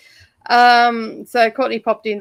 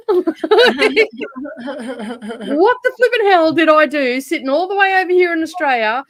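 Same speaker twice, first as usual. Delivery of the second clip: laughing exasperated rant; 6 semitones higher, 5 dB louder than usual. Acted. Venting to viewers about trolls, laughing exasperation. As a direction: voice climbing high and loud, half laughing in disbelief.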